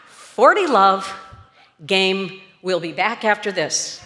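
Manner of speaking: lightly mimicked sparse match commentary; tennis play-by-play announcer. Boss showing a new commentator the job, lightly acted announcer. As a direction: give the score like an announcer, spaced out. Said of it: "give the score and go to commercial".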